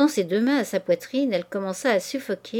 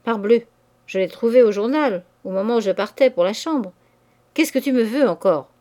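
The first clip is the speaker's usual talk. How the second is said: a touch louder, curt and mean; surly and nasty; 4 dB louder than usual. Acted. Lover greeting his clingy mistress, curt and nasty. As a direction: snap at her, sour and put out. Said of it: "Il avait pris un visage méchant".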